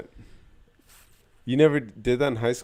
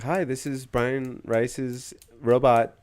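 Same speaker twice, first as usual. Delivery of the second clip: slow, higher robot announcement; 4 semitones higher, much slower than usual. Pretend. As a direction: announce it like a stiff phone robot. Mocking a robot phone call.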